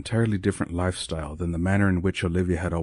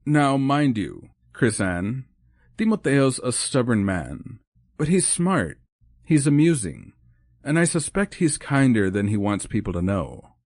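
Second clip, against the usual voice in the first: admiring; 6 semitones higher, 3 dB louder than usual. Acted. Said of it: "the admiration in her voice came through clearly".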